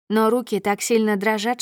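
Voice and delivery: ordinary delivery, nothing marked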